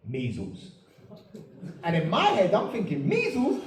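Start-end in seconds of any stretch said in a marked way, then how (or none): 0.1-0.7 low, soft doctor's verdict; hushed, low pronouncement; grave diagnosis. Retold or imitated. 3.1-3.6 high-pitched disbelieving question; comic astonished squeak; incredulous echo. Retold or imitated. Patient reacts to the diagnosis.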